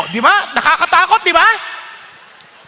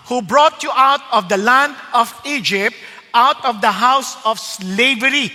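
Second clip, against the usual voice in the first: slow, weighty reading of the Bible verse; solemn scripture reading; slower than usual. Acted. Preacher reading scripture aloud to the congregation, slow and solemn. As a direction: read each word slowly like holy writ.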